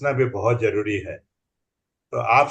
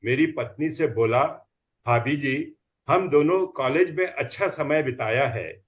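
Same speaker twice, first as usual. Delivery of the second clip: comic poem recital; 2 semitones higher than usual. Acted.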